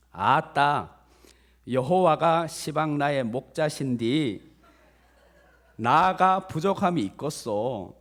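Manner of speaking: slow, drawn-out put-on Jeolla accent; practised imitation of Jeolla country speech; Jeolla dialect. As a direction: recite it in hearty Jeolla dialect. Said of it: "전라도 버전이더라고요".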